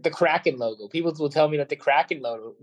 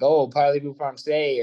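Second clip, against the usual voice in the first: French catchphrase; slower than usual. Retold or imitated. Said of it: "the French catchphrases".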